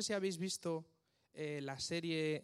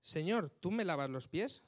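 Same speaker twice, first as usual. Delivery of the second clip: shocked question. Shown as a demonstration. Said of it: "súper chocados, no sabían cómo reaccionar".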